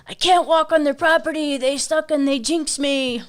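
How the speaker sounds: high, mock-whiny complaint; mock whiny quote. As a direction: whine it like a sulky kid.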